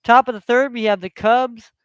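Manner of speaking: casual sportscaster reading scores; relaxed sports-update announcer voice; play-by-play score update. Acted. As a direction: read out the scores like a live broadcast. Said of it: "live play-by-play broadcast".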